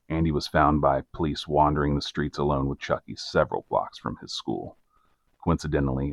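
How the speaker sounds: measured storyteller's read; scripted narrator voice, evenly paced; documentary narration. A narrator's reading. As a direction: narrate the case like a true-crime report. Reads scripted case narration.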